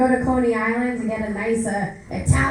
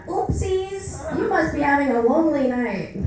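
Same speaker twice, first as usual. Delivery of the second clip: cutesy app voice; 2 semitones higher than usual. Retold or imitated. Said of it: "another eggplant emoji comes up".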